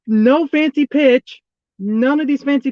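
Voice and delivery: slow, emphatic frustrated order; frustrated insistence. Real, not acted. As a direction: spell it out slowly, fed up. Frustrated fan pleading with the pitcher.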